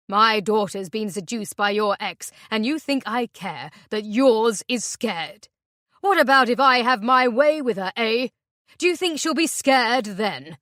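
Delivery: loud, menacing rage; furious threat. Acted. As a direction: snarl the threat at her.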